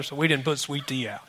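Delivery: whispered excuse. Retold or imitated. Worker whispering the sweet tea excuse, hushed. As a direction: mutter it away under breath. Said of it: "unvoiced whisper".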